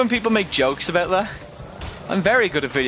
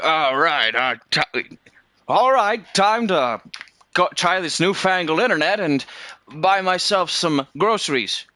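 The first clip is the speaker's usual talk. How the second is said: put-on old man voice. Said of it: "he just gets up and it's like".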